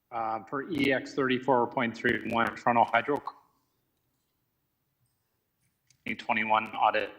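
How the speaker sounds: choppy cutting-out audio; broken-up connection; glitching audio. Real, not acted. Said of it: "you keep cutting out".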